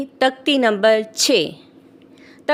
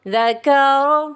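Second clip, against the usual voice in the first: spelling-drill recitation. Shown as a demonstration. Teacher demonstrating Qaida spelling to learners, measured drill chant. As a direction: chant each letter, then join the syllables. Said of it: "इस तरह से करेंगे".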